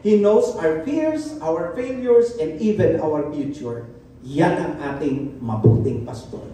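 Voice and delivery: very slow, deliberate sermon lines; slow, weighty pastoral delivery; slow emphatic preaching. Acted. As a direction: let each word land slowly. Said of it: "slow sermon emphasis".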